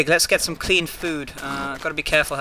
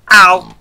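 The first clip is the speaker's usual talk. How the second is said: loud ow; 4 semitones higher, 18 dB louder than usual. Real, not acted. Hurt in game.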